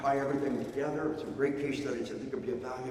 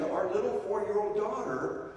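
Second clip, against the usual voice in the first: worried dad; 6 semitones higher than usual. Retold or imitated. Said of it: "a cop told me".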